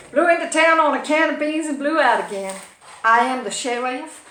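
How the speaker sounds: hammed-up Wild West sheriff; playful western storytelling voice; country and western sheriff. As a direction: announce yourself like a cowboy lawman. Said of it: "All my country and western fans".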